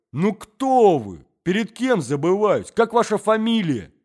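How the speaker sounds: громко и высоко, требовательно; наседает с вопросами, гремя; гремит в гневе. Acted. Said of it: "Загремел он". (молодой человек гремит на господина в енотах)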